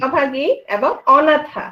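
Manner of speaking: slow, deliberate অভাগী এবং অনাথা, stressing অনাথা; careful correction. Shown as a demonstration. Teacher slowly spells out the correct feminine words for the student. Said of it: "অভাগা।".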